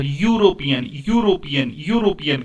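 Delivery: "यूरोपियन" measured, leaning on the opening y-glide; pronunciation demo. Shown as a demonstration. Teacher stressing sound over spelling, deliberate "यूरोपियन". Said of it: "उच्चारण पर".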